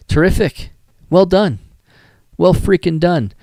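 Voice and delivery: excited praise. Real, not acted. Enthusiastic praise of the photo.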